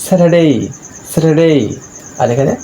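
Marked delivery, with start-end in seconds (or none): 0.0-1.5 higher-pitched স্যাটারডে with no R; silent R. Shown as a demonstration. Teacher showing R before a consonant, silent R. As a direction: model স্যাটারডে as "se-te-dei". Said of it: "আর এর উচ্চারণটি হচ্ছে না".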